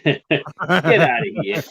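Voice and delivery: slow, drawn-out Boston "Get outta here"; Boston accent. Pretend. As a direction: stretch it out in a thick Boston accent. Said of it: "That's more, uh, Boston".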